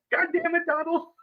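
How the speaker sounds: put-on, very high, angry scream. Retelling a mic'd-up quarterback yelling at a teammate: imitating Peyton Manning screaming. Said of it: "Peyton running while he's screaming".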